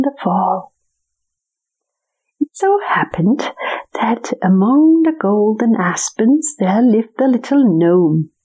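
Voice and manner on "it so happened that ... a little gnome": whispered story narration. A narrator's reading. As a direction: whisper it like a bedtime tale.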